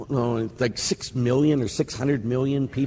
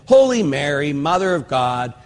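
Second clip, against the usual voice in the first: retold prayer. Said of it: "as I said the second part".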